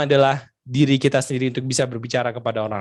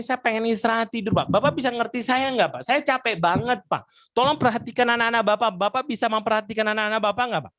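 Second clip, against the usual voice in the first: raised, pleading complaint at higher pitch; tired man scolding the father; exasperated young man complaining to a father; mild acted anger; 6 semitones higher than usual. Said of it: "Dia marah".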